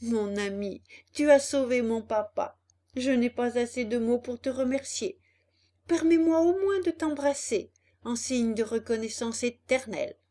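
a touch of heartfelt emotion; earnest thanks, lightly swelling with feeling; moved. Acted. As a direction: voice a little moved by gratitude. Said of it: "il lui dit d'une voix émue".

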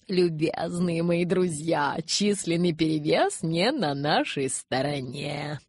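slow, drawn-out address; clear oratorical voice. A narrator's reading. Elder addressing his followers, clear slow oratory. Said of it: "Ясным голосом обратился он к своим".

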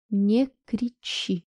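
cold robotic warning, slowly; metallic voice. A narrator's reading. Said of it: "услышала она металлический голос".

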